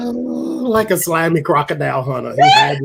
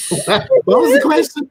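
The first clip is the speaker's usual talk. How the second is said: after laughing hard; 12 semitones higher, 4 dB louder than usual. Real, not acted. After a long laughing fit.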